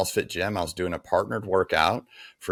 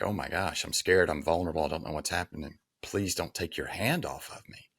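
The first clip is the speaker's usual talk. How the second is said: soft, shaky-kneed plea, sinking softer; retold fear, quiet and small; scared pleading; 5 dB quieter than usual. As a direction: beg him to keep his hand there, almost under your breath. Same line, now scared and pleading.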